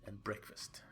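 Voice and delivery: whispered, sly excuses; creepy whisper. Acted. Chuck explains his lisp.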